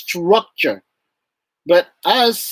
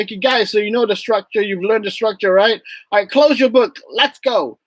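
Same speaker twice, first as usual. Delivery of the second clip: rallying teacher; 5 semitones higher than usual. Retold or imitated. Teacher rallying class in retold scene.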